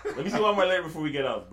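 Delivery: pleading through a laugh. Real, not acted. Laughing while begging to read lyric.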